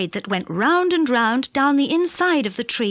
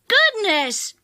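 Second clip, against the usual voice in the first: high, bright exclamation of surprise; surprised call; 9 semitones higher than usual. A narrator's reading. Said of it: "he called to the others".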